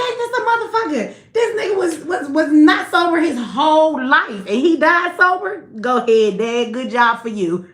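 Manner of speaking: high, laughing mock toast to a dead dad; laughing disbelief. Retelling her reaction to her sober dad's autopsy, laughing disbelief. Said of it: "I was like".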